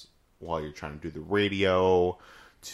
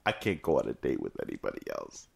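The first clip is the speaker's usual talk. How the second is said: mock solemn vow; 13 semitones lower, 5 dB quieter than usual. Dramatic inner vow.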